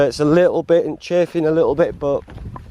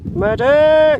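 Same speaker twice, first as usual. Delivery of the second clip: high, loud cry for a medic; man down shout; 5 dB louder than usual. Pretend. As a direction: yell for a medic like a wounded soldier. Calling for help as a joke.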